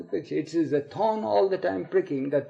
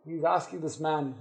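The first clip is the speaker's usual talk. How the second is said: plain reading voice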